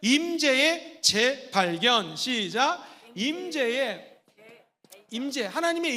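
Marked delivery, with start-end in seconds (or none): 0.0-2.2 very slow, drawn-out 임재의 재발견; slow call-and-response. Shown as a demonstration. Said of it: "한번 따라해볼까요?". 3.1-4.2 very slow drawn-out 임재의; slow prompt. Shown as a demonstration. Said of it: "한번 따라해볼까요?".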